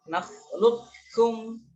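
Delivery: Nakhluqukum slowly, straight into a doubled k; full idgham. Shown as a demonstration. Teacher repeats for students, Nakhluqukum with q merged into kaf. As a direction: chant Nakhluqukum drawn out, no q heard. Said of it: "langsung masuk ke kafnya".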